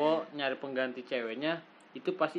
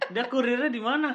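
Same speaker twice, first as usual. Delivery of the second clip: laughing; 9 semitones higher than usual. Real, not acted. Teasing friend about drug courier.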